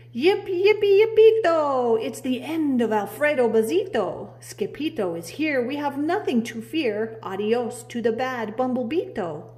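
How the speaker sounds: high, loud triumphant yipping; whooping with joy; victory cheer. Acted. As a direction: crow it out like a proud puppy.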